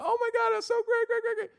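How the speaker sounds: very high, softened squeal; gushing relatives imitated. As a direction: mimic excited family gushing on the phone. Mimics relatives congratulating by phone.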